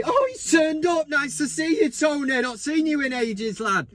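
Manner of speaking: sarcastic greeting. Pretend. Greets player's photo sarcastically.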